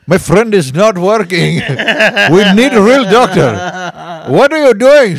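frantic high-pitched passenger, loud and strained; high panicked yell. Acted. Panicked passenger yelling at the joking comedian, high and loud. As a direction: yell for a real doctor, voice cracking high.

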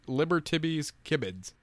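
Libertibby's Kibbids with ib inserted; Ubby Dubby talk. Shown as a demonstration. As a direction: say Libertibby's Kibbids in play language. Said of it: "So Liberty's Kids is".

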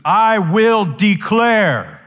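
slow, loud, high proclamation; total authority. Shown as a demonstration. Preacher giving Jesus' word of judgement, total authority. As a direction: declare it word by word, loudly. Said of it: "Total authority".

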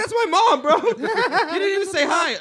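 loud, high mock yell with a laugh; mock New Yorker yell. Comic imitating a New Yorker, mock angry yell. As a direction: bellow it like an offended New Yorker.

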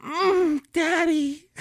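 high breathy falsetto moan; moaning daddy. Pretend. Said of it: "give me some exclamations".

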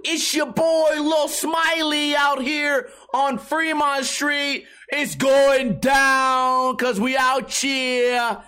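hammed-up street hype shout; mock hype host. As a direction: announce yourself like Lil Smiley. Imitating fake-name hype host.

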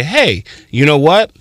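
slow, kind, guiding tone; calmly steer them right; patient teacher talking a kid through it; gentle correction. Shown as a demonstration. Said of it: "the real benefit is to say".

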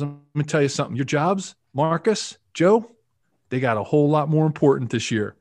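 imitated Southern North Carolina accent; lightly voiced Carolina coach addressing the team; Alex Gibbs. Line coach warning players about jobs, imitated North Carolina accent. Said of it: "Southern North Carolina accent".

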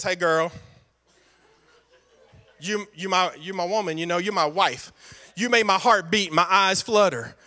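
low, lightly voiced romancer sweet-talking his wife; smooth-talking Abram. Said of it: "I don't know why he talks like this".

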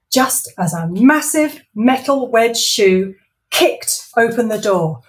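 lively storybook reading; story narration. A narrator's reading. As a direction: read it like a bedtime story. Author reads her story aloud.

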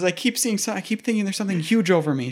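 mock frightened. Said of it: "She says".

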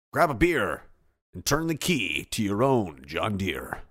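a lightly voiced commercial read. Host reading a listener's fake sponsor ad, mock ad voice. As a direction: read it like a radio spot, slowing on the tag line. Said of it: "my first John Deere commercial".

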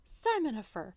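playful shocked comeback; hammed-up scandalized name-calling; mock shock. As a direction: answer in pretend shock. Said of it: "he pretends to be shocked".

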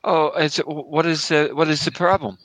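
put-on confused, stammering German accent; bad German accent. Immigrant refused entry by the officer, bad German accent. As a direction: stumble through it in a fake German accent. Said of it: "the worst German accent ever".

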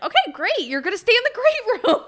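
high mock-cheerful sarcasm; sarcastic high voice. Retold sarcastic reply, high.

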